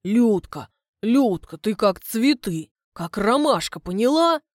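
loud, slow, earnest courting; a simple man going on the attack with compliments, loud and earnest; clumsy wooing. Acted. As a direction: press on with awkward compliments. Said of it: "решает идти в наступление".

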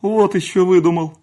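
high loud angry outburst; fly at him with a shriek; lashing out. A narrator's reading. Housekeeper snapping at the servant, loud and shrill. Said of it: "накинулась на него Аграфена".

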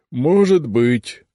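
slow, grudging concession; reluctant. Acted. Right head conceding to the left head, reluctant. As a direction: give in without wanting to. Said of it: "неохотно согласилась правая голова".

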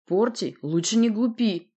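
measured but pointed warning. Acted. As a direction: caution him slowly and firmly. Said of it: "предостерёг Володя".

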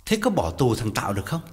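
hỏi nhanh, giật mình; bật hỏi vì bất ngờ; startled question. Acted. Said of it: "Quán giật mình hỏi". (con trai giật mình hỏi mẹ, giọng hơi vội)

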